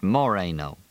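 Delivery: Moreno with the stress moved onto "Mo"; accent the first syllable of Moreno: MO-reno. A narrator's reading. Sheriff reads out Moreno, accenting the first syllable. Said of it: "accented the first syllable of the last name".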